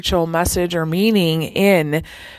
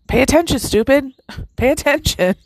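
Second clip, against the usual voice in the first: light teasing higher voice with a laugh; playful inner voice; 5 semitones higher than usual. Retold or imitated. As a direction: nudge yourself, half-joking, raised pitch. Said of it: "your intuition saying".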